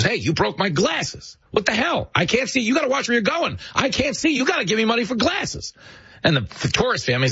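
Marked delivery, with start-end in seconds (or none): 0.0-5.7 high, whiny street hustler faking outrage; scam artist's whine. Retold or imitated. Hustler bumping a tourist family, high fake-outraged whine. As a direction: squeal like a con man shaking down tourists. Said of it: "drops his broken glasses on the ground and goes".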